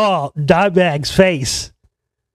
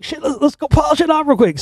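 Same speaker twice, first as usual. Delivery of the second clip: imitating a musician; 10 semitones higher than usual. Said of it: "Talking about my boss, like".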